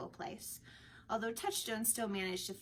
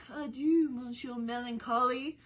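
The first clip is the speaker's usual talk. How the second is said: called out louder to someone leaving; calling after; 4 semitones higher, 7 dB louder than usual. A narrator's reading. Orlando calling mockingly after the departing Jocks, loud. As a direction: call it after him as he walks off. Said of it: "Orlando called after him".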